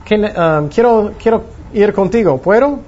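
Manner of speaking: a hint of an eager disciple; eager Peter. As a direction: play Peter begging to come along. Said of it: "Pedro dijo después".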